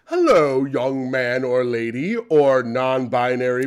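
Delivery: hammed-up courtly greeting, the second line slow; fussy polite gentleman. Tim greeting the barista in an overly polite gentleman voice. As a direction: greet them like a gent in a monocle and top hat. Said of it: "when you talk like this".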